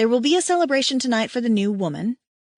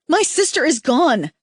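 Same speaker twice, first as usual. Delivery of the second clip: loud, higher furious cry; angry shout; 5 semitones higher, 5 dB louder than usual. A narrator's reading. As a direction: shout the loss out in rage. Stranger ranting.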